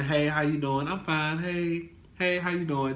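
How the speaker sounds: flat, soft, down greetings; moping greeting. Retold or imitated. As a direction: mumble hellos without energy. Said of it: "walking around here moping".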